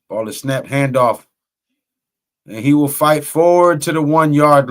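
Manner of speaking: measured football announcer call; live play-by-play. Real, not acted. Announcer calls the goal-line drive for listeners, live play-by-play. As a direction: set up the snap, then call the run.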